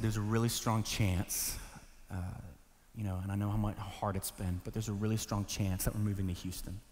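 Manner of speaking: low, hushed, hesitant fatherly delivery; dad breaking hard news. Retold or imitated. Dad telling his son about the move, quiet and careful. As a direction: break it softly and reluctantly. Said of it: "when something hard has to be shared".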